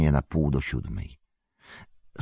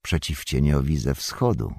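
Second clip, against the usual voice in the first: calm. Acted. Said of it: "spokojnie powiedział".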